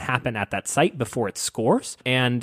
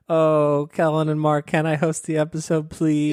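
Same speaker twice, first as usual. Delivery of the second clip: higher mocking plea, as if begging; mock pleading; 4 semitones higher than usual. Teasing the host about asking to host, mock pleading. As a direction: imitate a co-host begging for a favour. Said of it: "when he said".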